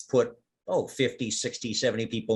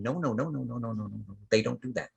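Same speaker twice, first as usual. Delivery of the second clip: chorus of plant voices; 6 dB quieter, faster than usual. Acted. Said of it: "a whole lot of little voices going".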